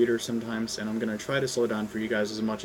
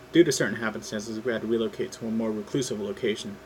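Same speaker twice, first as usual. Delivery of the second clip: ordinary delivery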